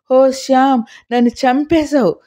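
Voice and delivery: a hammed-up howl of pain; wailing. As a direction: wail at him as if burned. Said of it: "అని గొల్లుమంది".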